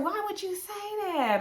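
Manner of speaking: high, drawn-out mock disbelief; incredulous challenge. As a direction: mimic an appalled question, high and slow. Retold challenge over an insult.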